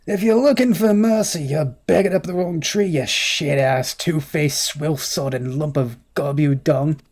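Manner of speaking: put-on rough Australian accent hurled as an insult; attempted Australian accent. Tavern keeper rounds on the drunk, rough Australian accent. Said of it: "I could do an Australian accent".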